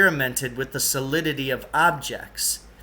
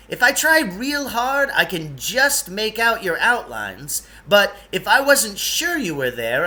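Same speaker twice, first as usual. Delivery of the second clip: put-on lightly raised, eager odd old fellow; a hint of a fussy eccentric guide; Lance's voice; 4 semitones higher, 4 dB louder than usual. Lance hurrying the two boys along, lightly higher voice.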